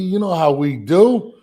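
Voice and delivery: put-on playful New York accent take. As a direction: say it like a New Yorker. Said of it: "that was a bad New York accent".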